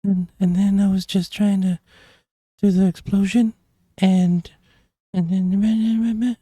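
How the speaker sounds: high, breathy creature impression; breathy, high-pitched villain. Shown as a demonstration. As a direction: do a nervous creep who is always out of breath. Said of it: "it's like that kinda".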